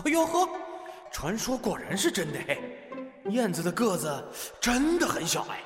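amused, scornful king voice; mocking king. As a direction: sneer with a chuckle. King mocks small envoy.

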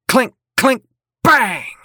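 bang it out like clanging metal; clanging sound effects. Acted.

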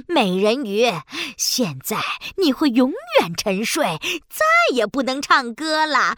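wicked gloating. Acted. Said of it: "海女巫露出了真面目".

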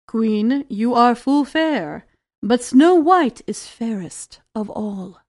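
low, echoing voice of a magic mirror; shimmering echoing mirror voice. Acted. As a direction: intone it like an enchanted mirror.

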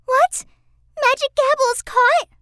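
put-on startled little girl cry; shocked. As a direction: gasp out the news.

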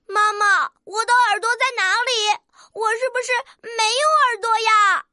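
put-on mildly tearful child character; sad little rooster. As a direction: complain unhappily to mother. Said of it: "怎么这么难过的样子呀".

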